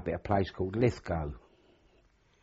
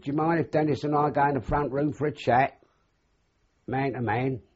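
father voice; 7 semitones higher, 4 dB louder than usual. Retold or imitated. Father's formal request.

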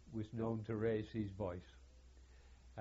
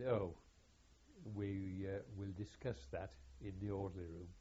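soft, lower imitation of a colonel; very quiet voice; 3 semitones lower, 6 dB quieter than usual. Colonel puts off the adjutant until orderly room, very quiet voice. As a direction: imitate a quiet-spoken commanding officer. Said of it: "always in a very quiet voice".

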